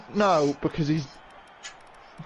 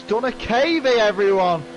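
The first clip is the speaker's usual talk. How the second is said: higher, louder cheer to viewers; excited announcement; 6 semitones higher, 6 dB louder than usual. Real, not acted. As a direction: shout it out to the chat. Announcing to stream.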